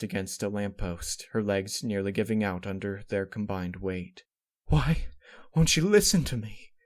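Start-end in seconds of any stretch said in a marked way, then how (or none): 4.7-6.7 loud, high, desperate outburst; blurted out. Acted. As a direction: blurt it out in distress. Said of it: "she blurted out".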